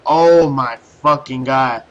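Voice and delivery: slow, drawn-out exasperation; heavy, slow "oh my fucking god"; exasperated. Retold or imitated. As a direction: stretch each word in disbelief. Exasperated at second satellite job.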